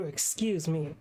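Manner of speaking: throat catching after choking; recovering from choking on spit. Real, not acted. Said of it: "choking on my spit".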